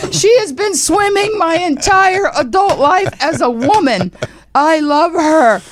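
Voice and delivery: high, loud and slow, overcome; tearful rave. Retold or imitated. Host on radio overcome watching the swim. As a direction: pour out love, voice overwhelmed. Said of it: "I was sobbing".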